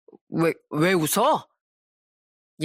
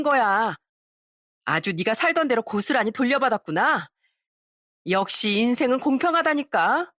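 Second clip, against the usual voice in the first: lightly acted knowing taunt; pointed storyteller's dialogue, a touch smug; mocking exposer. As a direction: reveal the dirty secret with relish. Acts out gloating confrontation.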